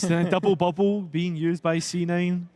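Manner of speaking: put-on Scottish accent on double bubble. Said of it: "best thing that you've ever said in a Scottish accent".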